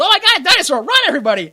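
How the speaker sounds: loud, high, hammed-up alarm; imitated panic at full voice; mock panicked shout. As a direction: yell a theatrical warning to a crowd. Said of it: "Actually, he goes".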